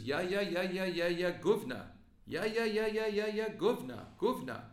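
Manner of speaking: high, loud imitation of an angry old Polish woman; mock yell. Mimicking the old woman who yelled in Polish at the meeting, loud and high. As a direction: squawk it back loud and high like the heckler. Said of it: "she was yelling at me".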